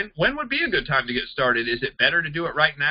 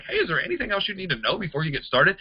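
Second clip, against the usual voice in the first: "Hey, is there anything else" asked a little high, as an open question; casual question lilt from "Hey" to "started"; questioning tune; 4 semitones higher than usual. Shown as a demonstration. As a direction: raise "before you get started?" like a real question. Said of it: "it sounds like a question".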